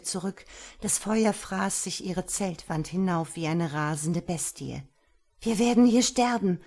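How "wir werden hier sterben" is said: panicked cry. Acted. Tent on fire, panic.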